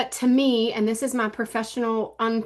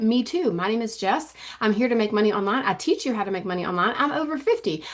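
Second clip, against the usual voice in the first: live host pitch. Shown as a demonstration. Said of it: "Speak it".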